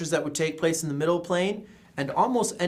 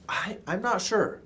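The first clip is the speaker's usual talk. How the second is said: hesitant, higher-pitched doubt with a false start; doubtful; 5 semitones higher than usual. Shown as a demonstration. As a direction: waver as if unsure. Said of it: "Or for doubt".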